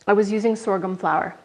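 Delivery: words through a mouthful; mouth full. Real, not acted. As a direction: answer while still chewing. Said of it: "Sorry to talk with my mouth full".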